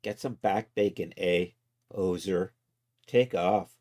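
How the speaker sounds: mock Canadian accent, played for laughs; lightly hammed-up Canadian hoser talk; Doug and Bob McKenzie. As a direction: toss out Canadian catchphrases in a put-on accent. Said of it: "All my Canadian comes from Doug and Bob McKenzie".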